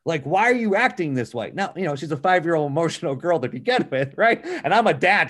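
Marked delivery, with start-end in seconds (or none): 0.2-1.5 annoyed dad. Retold or imitated. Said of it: "I was upset with her".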